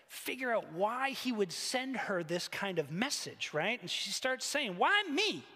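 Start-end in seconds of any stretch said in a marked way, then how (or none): 4.8-5.4 high, indignant plea to God; acted wail of grievance; rumbled complaint. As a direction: protest it upward, aggrieved. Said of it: "she rumbled".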